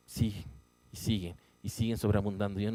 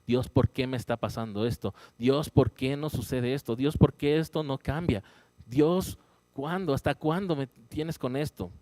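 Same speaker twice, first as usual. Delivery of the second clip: complaining to God; 3 semitones higher than usual. Retold or imitated. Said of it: "reclamarle a Dios".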